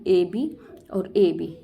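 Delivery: ए बी और ए बी said slowly, letter by letter; slow spelled-out scheme. Shown as a demonstration. Teacher spelling the rhyme scheme for students, slowly. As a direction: spell ए बी और ए बी out one letter at a time. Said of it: "इसकी rhyming क्या बन गई".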